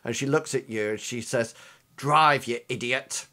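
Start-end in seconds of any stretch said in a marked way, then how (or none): 2.0-3.3 acted impatient order, leaning on "Drive"; snapped order. Bleeding driver ordering the passenger to drive, snapped order. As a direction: push out the first word, then ease off. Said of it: "Like that".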